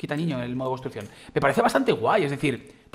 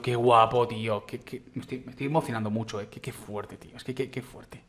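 ordinary talk

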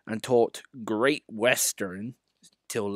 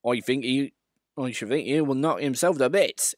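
snorting; 3 semitones higher than usual. Acted. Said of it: "he snorted".

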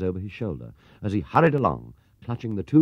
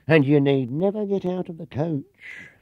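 higher, louder and slow, oversold; gushing sales pitch; 10 semitones higher, 6 dB louder, slower than usual. Acted. Clerk hyping the tour to Paddington, gushing. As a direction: sell the dream big.

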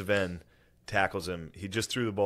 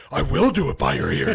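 loud, high defiant mock shout; imitated spazzing retort; Philip Rivers yelling back; 6 semitones higher, 9 dB louder than usual. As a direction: holler back like a stubborn excited kid. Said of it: "He starts yelling that".

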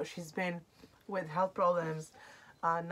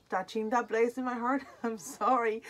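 teary; 4 semitones higher than usual. Real, not acted. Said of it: "I'm gonna keep crying".

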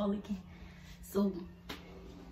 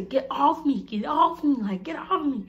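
raised, pushy get off me, a bit louder and higher; mock squished yell; 4 semitones higher, 5 dB louder than usual. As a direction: playfully shove a friend off you. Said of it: "we used to be telling each other".

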